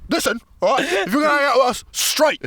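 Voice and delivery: high, emphatic ultimatum; mock-stern insistence. Man warning him about hanging out, mock-stern. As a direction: imitate a man laying down the law. Man laying down the law, retold.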